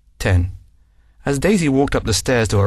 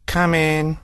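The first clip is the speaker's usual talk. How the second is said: monotonous; 6 semitones higher than usual. Acted. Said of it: "in her monotonous voice".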